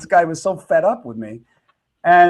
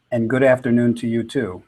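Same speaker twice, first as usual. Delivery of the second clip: sarcastic reply. Retold or imitated. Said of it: "shakes his head and looks at me and goes".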